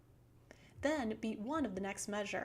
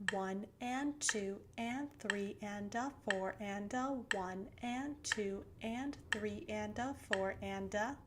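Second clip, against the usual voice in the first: counting triplets aloud. Shown as a demonstration. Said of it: "Here's how we count triplets versus eighth notes".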